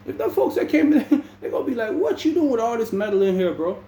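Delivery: high, mock-scandalized question; imagined officer. Officers find metal in the room, high mock alarm. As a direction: play the shocked officers.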